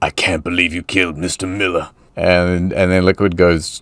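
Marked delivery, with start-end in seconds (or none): 0.0-1.9 deep, highly dramatic delivery. Acting out a game scene as Snake: very dramatic Snake line. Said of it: "Snake says very dramatically".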